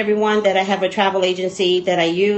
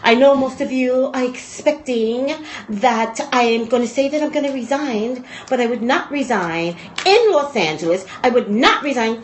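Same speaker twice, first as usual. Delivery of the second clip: put-on a light Eastern European accent, slowed; lightly voiced Russian accent, cocky; 2 semitones higher than usual. Maria Sharapova at a press conference, light Russian accent. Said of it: "Is that a Russian accent?".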